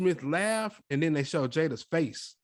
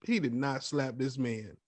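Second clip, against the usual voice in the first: stunned; 3 semitones lower, 7 dB quieter than usual. Retold or imitated. Disbelief, soft and slow.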